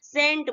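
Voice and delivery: सेंट opening on a plain S; silent C. Shown as a demonstration. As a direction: say सेंट with no K sound. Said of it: "हम क्या इसे read करेंगे".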